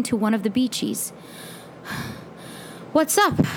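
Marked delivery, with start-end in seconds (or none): 2.9-3.5 high, winded greeting; gasped. A narrator's reading. Runner greets a friend, gasping for breath. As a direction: gasp it as if catching your breath. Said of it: "I gasped ... trying to catch my breath".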